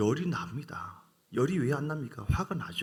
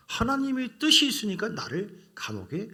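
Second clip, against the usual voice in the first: slow recitation; 4 semitones higher, slower than usual. Shown as a demonstration. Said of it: "시작".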